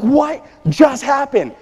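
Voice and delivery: high, loud, slow shocked cry; stunned shout. Retold or imitated. Father at dinner table shocked by chaos, loud slow shout. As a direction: bellow it in disbelief at the mess. Dad turns to find chaos.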